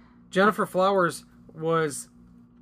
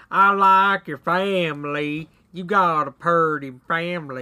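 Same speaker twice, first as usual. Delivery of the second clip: Whitey voice; 5 dB louder than usual. Retold or imitated. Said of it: "he talks that way".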